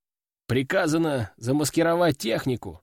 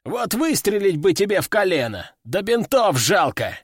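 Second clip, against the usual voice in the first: through clenched teeth; 4 semitones higher than usual. Acted. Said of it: "стиснул зубы ветеран".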